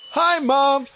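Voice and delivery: high, lifted hello; greeting mum. A narrator's reading. Jacko greets his mother.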